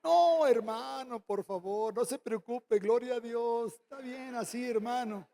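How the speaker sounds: falsely humble, softening away; mock modest refusal. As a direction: pretend to decline politely. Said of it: "los pastores somos muy modestos". (humildad fingida y suave)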